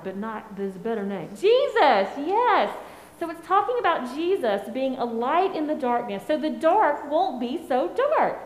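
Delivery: put-on gentle, patient voice for small children; sweet patient sunday school. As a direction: talk kindly to kids in Sunday school. Children's message to kids.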